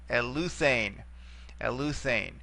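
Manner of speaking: eleutherne with the beat on the u; accent the u syllable in eleutherne; stress on the U. Shown as a demonstration. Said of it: "we will bring it back to here".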